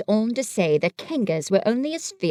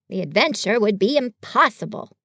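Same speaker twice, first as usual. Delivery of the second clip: solemn. Acted. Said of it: "said Rabbit solemnly".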